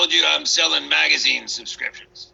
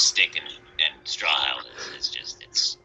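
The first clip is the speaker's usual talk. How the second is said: whisper; 13 semitones lower, 5 dB quieter, slower than usual. Acted. Wolf sniffing at the pig houses.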